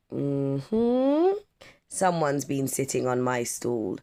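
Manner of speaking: nod it through, sure of the culprit; knowing papa. Acted. Papa Akufo noticing his stool, lightly voiced and knowing.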